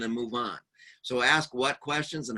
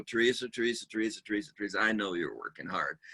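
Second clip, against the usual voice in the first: softer, lower soothing repeat of her name; calming; 4 semitones lower, 3 dB quieter than usual. Shown as a demonstration. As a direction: gently settle her down. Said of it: "calm down the situation".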